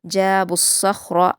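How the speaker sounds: slow, melodic Quranic recitation; measured Quran recitation; tajweed recitation. Shown as a demonstration. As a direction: recite it slowly and carefully as a model for students. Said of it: "रा को पुर पढ़ते हुए हम जल्दी पढ़ेंगे".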